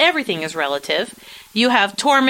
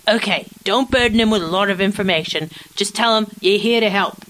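mock Davos accent; faster than usual. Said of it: "But not in that accent".

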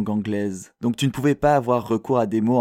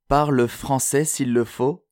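slower, higher-pitched quoted advice; measured, insistent urging with raised pitch; corrected retake; 4 semitones higher, slower than usual. Acted. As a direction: redo the line slowly, pitch lifted. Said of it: "Pas comme ça".

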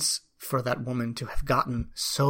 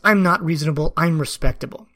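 irate retort; 3 semitones higher, 5 dB louder than usual. Retold or imitated. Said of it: "one of the women becomes irate".

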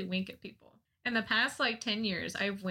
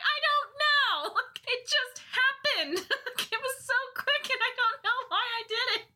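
laughing; 13 semitones higher than usual. Real, not acted. Laughing while retelling to mom.

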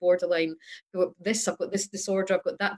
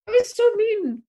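laughing; 13 semitones higher, 4 dB louder than usual. Real, not acted. Laughing at own rudeness.

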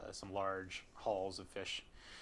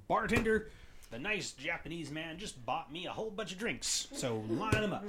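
raised, tipsy barfly voice; cheerful drunk calling the bartender; drunk old man; 8 semitones higher than usual. Pretend. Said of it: "staggers back up to the bar and says".

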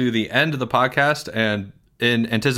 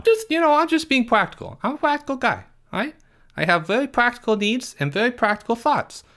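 put-on whiny, higher kid voice with big complaints; Porge; 9 semitones higher than usual. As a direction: play Porge, indignant and put-upon.

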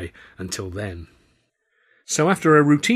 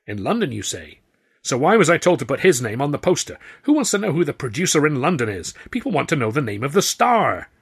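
louder, higher pushy showman; indignant theatre owner; 4 semitones higher, 5 dB louder than usual. A narrator's reading. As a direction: complain like a miffed impresario. Grauman voiced, indignant.

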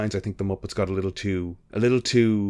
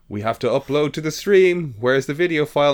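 frantic quote; 7 semitones higher, 7 dB louder than usual. Retold or imitated. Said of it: "a TV series that was like".

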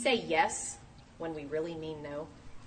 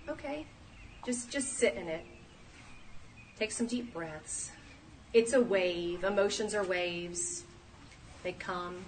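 calming coach; 4 dB quieter than usual. Pretend. Calming an angry person.

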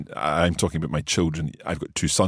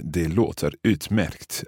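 slow demo; slower than usual. Shown as a demonstration. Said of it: "we covered that".

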